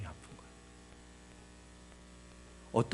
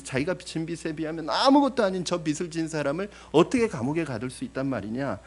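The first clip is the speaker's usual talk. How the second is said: rising, louder outrage at the servant; indignant outburst; 4 semitones higher, 5 dB louder than usual. Retold or imitated. Congregation's imagined outrage at the unforgiving servant, getting louder. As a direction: voice the listener's indignation, building. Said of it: "뭐 이렇게 막 화가 날 거예요".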